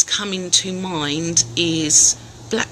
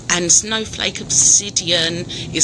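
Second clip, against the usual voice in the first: shivering; slower than usual. Real, not acted. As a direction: voice trembling from the cold. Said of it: "I'm shaking now 'cause it is so cold".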